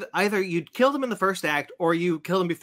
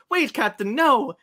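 mock alarmed cry; 8 semitones higher, 4 dB louder, slower than usual. Acts Poirot warning the doomed captain.

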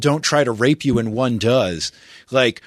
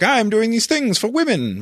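mock self-righteous guy; 9 semitones higher than usual. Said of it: "and be like".

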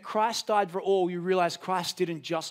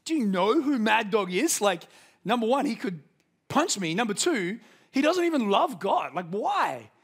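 indignant protest; 4 semitones higher, 3 dB louder than usual. Retold or imitated. Dad's indignant inner protest.

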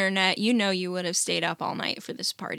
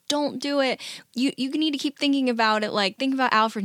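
higher, pleading; urgent plea; 4 semitones higher than usual. Retold or imitated. Maid begging her friend, raised pleading voice. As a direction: beg her to stop.

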